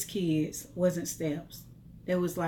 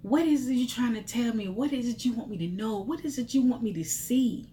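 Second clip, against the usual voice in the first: pleading prayer; 4 semitones higher than usual. Retold or imitated. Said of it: "I began to say".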